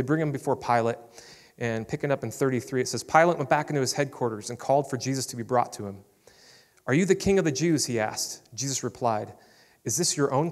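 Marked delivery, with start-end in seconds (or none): 3.0-6.0 measured Bible reading to the congregation; scripture reading. Acted. Pastor reading John to the church, measured. 6.9-7.9 a higher, louder demanding question; Pilate's challenge. Acted. Pilate questioning Jesus, louder and demanding.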